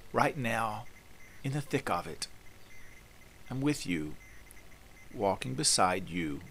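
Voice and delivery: gentle, assured voice with long pauses between phrases; tender, confident compassion. Acted. Jesus to the brokenhearted listener, with tender, confident compassion. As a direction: comfort them tenderly, letting each phrase settle. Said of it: "with the same compassion and confidence and tender, penetrating power".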